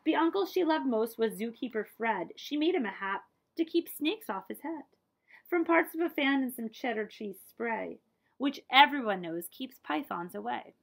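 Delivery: put-on rhythmic read-aloud verse for children; story narration. A narrator's reading. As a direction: read the rhyme to a child, lilting. Reading a picture book aloud.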